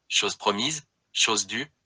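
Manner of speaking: "chose promise, chose due" said slowly; slow correction. Acted. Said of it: "ce n'est pas cela qu'on dit".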